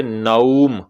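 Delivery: नौम said slowly with a full "au" diphthong; correct pronunciation. Shown as a demonstration. Teacher showing the maroof vowel in नौम. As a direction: stretch नौम with a clear "au". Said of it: "आपने मारूफ पढ़ना है".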